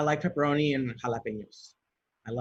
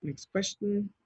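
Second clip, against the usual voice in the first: announcer voice; 6 semitones higher, 4 dB quieter, slower than usual. Pretend. Reading the next card.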